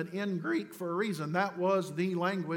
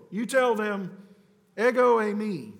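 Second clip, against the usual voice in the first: God's answer; 3 semitones higher, 5 dB louder than usual. Acted. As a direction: proclaim "ego eimi" with authority. God answers Moses.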